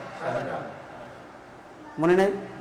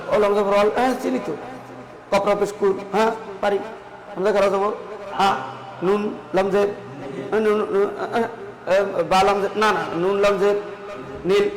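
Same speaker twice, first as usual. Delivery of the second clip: lightly acted halting learner, fumbling and self-correcting; villager struggling to spell; 3 semitones lower, 3 dB quieter than usual. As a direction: imitate a hesitant pupil sounding out letters. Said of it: "কেন গ্রামের মানুষ বানান না পারে". (গ্রামের মানুষের আটকে আটকে বানান করার হালকা অভিনয়)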